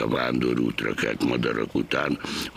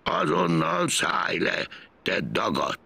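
high, slow angry yell; angry shout; 14 semitones higher than usual. A narrator's reading. Angry driver yells at Gombóc Artúr to get off. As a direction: scold him off the truck. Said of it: "Rákiáltott mérgesen".

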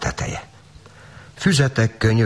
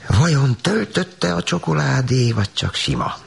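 curious wondering; 10 semitones higher than usual. Acted. Girl eyeing the chocolates, eagerly curious. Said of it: "kíváncsiskodott Tánya".

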